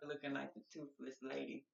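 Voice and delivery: talking while chewing; words round a bite of food; mouth full. Real, not acted. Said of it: "I'm chewing".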